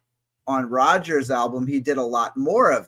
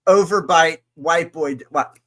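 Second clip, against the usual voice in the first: put-on overbite white boy voice; 3 semitones higher, 7 dB louder than usual. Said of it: "Don't ever do that again".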